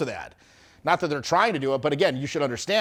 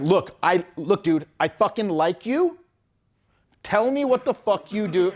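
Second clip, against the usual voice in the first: higher, mock-exasperated insistence; exasperated demand; 4 semitones higher, slower than usual. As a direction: push him hard like a fed-up date. Frustrated woman confronting him.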